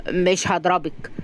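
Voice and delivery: drawn-out, even promise; measured, unhurried reply; slow reassurance. Acted. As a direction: answer slowly and patiently. Rahim reassures Razan slowly.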